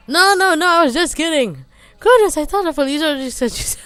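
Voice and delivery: giddy laughing. Real, not acted. Reacting amused to the joke.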